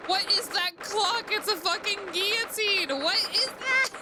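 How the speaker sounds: high, loud, slow horrified outcry; horrified shock. Real, not acted. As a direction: shriek it out in horror. Horrified at a guillotine clock.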